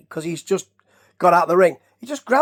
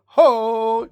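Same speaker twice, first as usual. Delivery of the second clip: catchphrase call; 3 semitones higher, 3 dB louder than usual. Retold or imitated. Imitates Jim Duggan's catchphrase.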